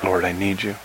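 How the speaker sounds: an understated cry to God, almost private; hushed plea. Acted. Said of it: "that's one of my cries".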